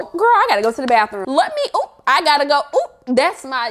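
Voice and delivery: fast, squeaky oop exit; hurried excuse. Shown as a demonstration. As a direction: rush off with an excuse. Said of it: "you have to be a little stronger".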